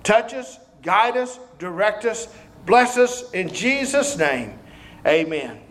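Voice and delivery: slow, low prayer voice. Acted. Closing prayer.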